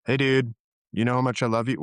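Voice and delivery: quick, offhand "know how much I love you"; "you know how much I love you" tossed out fast; casual, from the head. Shown as a demonstration. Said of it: "Let me put me in my head".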